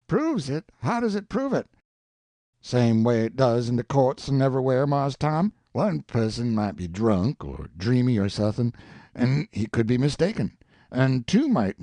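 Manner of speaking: earnest Jim. Acted. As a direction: lay down the proof like plain common sense. Jim voiced, arguing earnestly.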